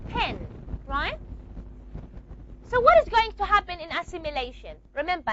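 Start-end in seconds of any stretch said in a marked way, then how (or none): 0.1-0.5 pen with the vowel through the nose; nasalized pen. Shown as a demonstration. Teacher demonstrates nasalized pen to students. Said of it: "I have".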